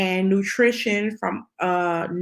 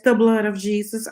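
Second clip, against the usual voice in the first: insistent exclamation; 4 semitones higher, 4 dB louder than usual. Retold or imitated. Repeats her exclamation to the doctor.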